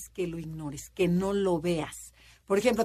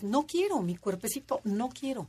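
whiny refusal; 3 semitones higher than usual. Retold or imitated. Nine refuses to confront someone, in a mock childish whine. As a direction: play a reluctant child, pleading.

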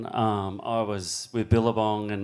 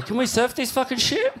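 much higher, laughing, eager; excited laughing ask; 12 semitones higher than usual. Retold or imitated. Asking Laurie if they can surf the huge swell, laughing. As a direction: ask it half laughing, itching to go. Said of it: "I said to Laurie".

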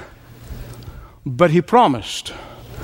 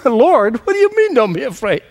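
anguished protest; 10 semitones higher than usual. Retold or imitated. Jairus protesting to Jesus.

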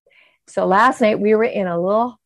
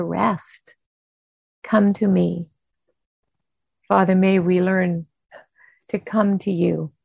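prayer. Acted. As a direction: pray calmly, pausing between phrases. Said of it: "leading us in kind of that breathing".

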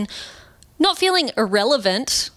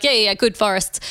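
eye-rolling dismissive; faster than usual. Retold or imitated. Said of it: "roll my eyes at that and be like".

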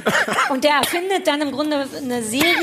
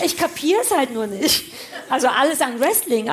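stifled giggles. Real, not acted. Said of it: "mit so einem unterdrückten Lachen".

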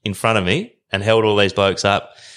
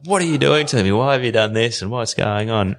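mock indignant, raised pitch easing down; fired up; 4 semitones higher than usual. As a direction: demand answers, retelling a mild outburst. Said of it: "I was a bit fired up".

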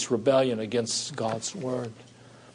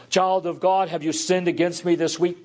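voice of the Lord pleading; 6 semitones higher than usual. Acted. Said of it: "And he says".

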